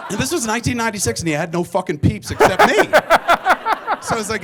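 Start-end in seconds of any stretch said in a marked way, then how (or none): 2.8-4.0 laugh. Real, not acted. Laughs at own punchline.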